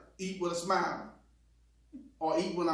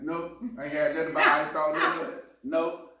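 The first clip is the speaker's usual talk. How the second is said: fast, louder, mock-dismissive Nope; mocking wife's answer; 5 dB louder than usual. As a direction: rattle it off like the brushed-off wife. Husband imitates wife's dismissive answer.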